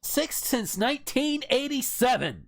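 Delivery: stunned, drawn-out echo of the figure; disbelief. Real, not acted. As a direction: say the number back as if it can't be true. Repeating a shocking figure.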